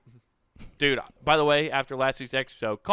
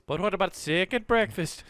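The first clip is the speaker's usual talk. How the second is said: Pippin voice; 3 semitones higher, 4 dB quieter than usual. Pretend. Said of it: "sounding like Pippin or Merry".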